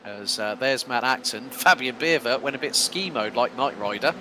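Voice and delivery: brisk live play-by-play; lap-one race caller; race commentary. Acted. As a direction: call the race as it unfolds.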